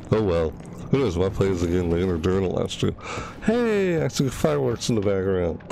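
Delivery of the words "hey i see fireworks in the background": high, delighted "hey"; excited. Real, not acted. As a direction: call out at a lovely surprise. Spots fireworks in game.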